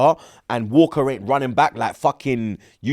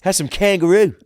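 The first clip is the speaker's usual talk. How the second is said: higher, hammed-up Aussie voice; Australian accent; 4 semitones higher than usual. Offering Aussie food to the co-host, Australian accent. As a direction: joke in a put-on Australian accent. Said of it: "you've got very good Australian accent".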